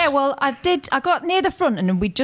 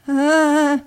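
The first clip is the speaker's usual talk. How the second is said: drawn-out panicked "ah", slightly raised; noise of panic; 3 semitones higher, 4 dB louder than usual. Shown as a demonstration. Partner shows what real panic sounds like, drawn-out "ah". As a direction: let out one long wordless panic noise. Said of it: "noise of panic is".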